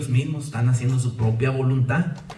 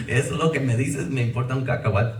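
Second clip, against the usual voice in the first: laughing. Real, not acted.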